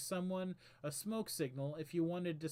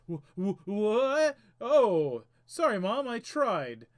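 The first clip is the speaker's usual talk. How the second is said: stammering; 4 semitones higher, 10 dB louder, slower than usual. Acted. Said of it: "The Knave stammers".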